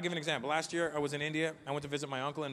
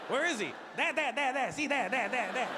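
Indian man pointing; 7 semitones higher than usual. Retold or imitated.

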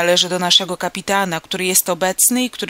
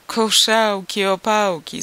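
louder, mocking dismissal; scoffing call; 5 dB louder, slower than usual. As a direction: toss it off with scorn. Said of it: "zawołał stary i wytrawny marynarz".

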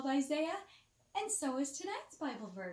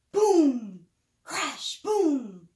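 booming, much louder, slow falling boom; thunder sound effect; 3 semitones higher, 16 dB louder, much slower than usual. Acted. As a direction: shout the thunder like a big storm.

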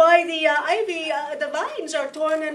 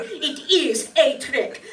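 amused chuckle; slower than usual. Acted. Detective gloats over her trick.

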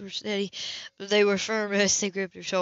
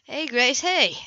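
put-on bright, raised call of a boy chasing fireflies; eager call; 3 semitones higher, 4 dB louder, slower than usual. Boy calls to Grace across the yard, eager shout. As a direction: call out to her, excited and loud.

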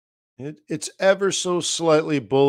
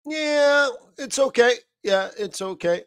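meh; 12 semitones higher than usual. Retold or imitated. Shrugging verdict on charts.

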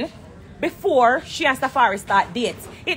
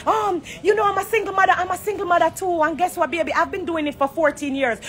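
higher mock wail fading to plain; mocking dramatic rival; 4 semitones higher than usual. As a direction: ham up her single-mother complaint, then settle. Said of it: "you ball and I scream down the place".

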